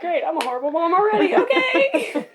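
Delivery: high, quick squeal breaking into laughter; rushed, very high mock despair; mock self-reproach. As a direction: wail it in hammed-up exasperation, laughing at the end. Mocking herself for forgetting the baby.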